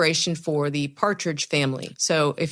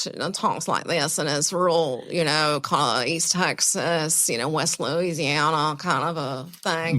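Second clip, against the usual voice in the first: a singer's accent. Shown as a demonstration. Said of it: "do your Lucinda accent".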